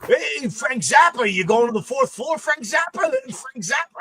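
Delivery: high-pitched imitation of a guy calling out; mock hollering at a coworker by nickname; heckling elevator operator. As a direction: stretch the opening hail, then keep needling, high.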